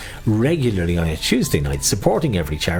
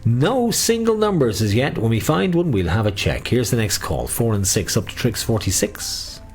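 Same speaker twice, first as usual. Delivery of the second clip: sing-song number calling; bingo caller. Acted. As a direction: lilt each number like a bingo hall.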